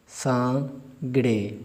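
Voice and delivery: सांगड़े drawn out with a nasal n; slow model word. Shown as a demonstration. Teacher modelling सांगड़े slowly. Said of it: "सांगड़े करके पढ़ें".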